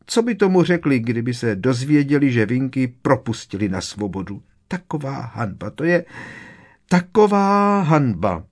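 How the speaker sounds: high, loud elf wail; distraught house-elf. A narrator's reading. Winky the elf frets over her master's freed servant, distraught and high. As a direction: squeal it out in scandalised shame.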